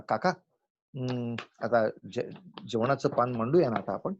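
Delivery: gentle, hesitant courteous ask; considerate, unhurried suggestion; sweet polite request. Shown as a demonstration. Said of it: "किती गोड वाटतं ऐकायला".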